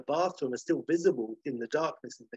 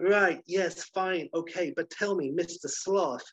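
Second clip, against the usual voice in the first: put-on higher, brisk impatient young woman; impatient girl; 4 semitones higher than usual. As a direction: hurry the sloth along. Sarah impatient.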